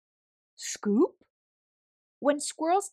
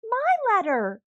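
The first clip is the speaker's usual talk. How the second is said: hoog en luid volhouden: mijn brief!; aandringend; 11 semitones higher, 5 dB louder than usual. Acted. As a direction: eis hem op, niet toegeven. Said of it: "insisted Hedgehog".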